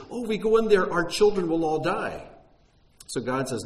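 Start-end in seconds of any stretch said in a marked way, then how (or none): 0.1-2.3 high, loud mock whine; whining. Israelites balking at entering the land for their children's sake, whining. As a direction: wail it like complaining people. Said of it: "Because the people whine".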